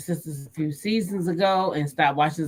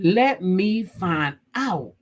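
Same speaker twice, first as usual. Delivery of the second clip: knowing drawl; much slower than usual. Real, not acted. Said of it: "I said".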